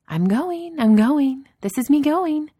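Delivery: very high, lilting retreat; playful surrender. Acted. Grinning boss backing out of the office, playful surrender.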